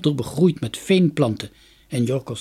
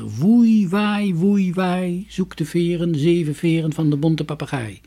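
high, drawn-out howl easing into words; sway it like the wind calling; 5 semitones higher, slower than usual. A narrator's reading. The wind's mysterious call in the story.

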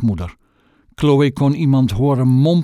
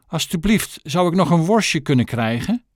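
pleading tramp; 4 semitones higher than usual. Acted. Tramp begs for a sausage.

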